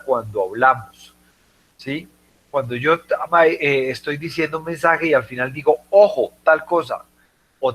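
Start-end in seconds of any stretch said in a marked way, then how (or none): 5.9-7.0 Ojo punched as a heads-up; emphasis on Ojo. Shown as a demonstration. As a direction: hit Ojo hard to flag what follows. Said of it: "le estoy dando énfasis".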